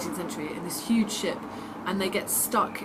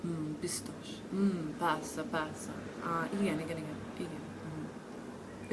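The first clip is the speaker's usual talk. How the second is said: pretending to follow Hungarian; 6 dB quieter, slower than usual. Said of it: "Are you ready for this?".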